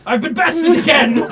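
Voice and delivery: loud, laughing, outraged defeat; sputtering foiled villain. Acted. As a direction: shake your fist and sputter. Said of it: "He shakes his fist at the sky".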